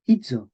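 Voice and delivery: hizo with an affricate, like HI-dzo; medieval pronunciation. Shown as a demonstration. Teacher modelling the word, medieval pronunciation. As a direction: give hizo a dz for the z. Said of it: "eso se pronuncia".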